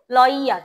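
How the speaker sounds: "লয়ার" said as "loi-yar" with a drawn-out y; emphasized y sound. Shown as a demonstration. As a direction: stretch the y glide in "লয়ার". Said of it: "ওয়াই এর এখানে রস্যইটা একটু বেশি emphasise".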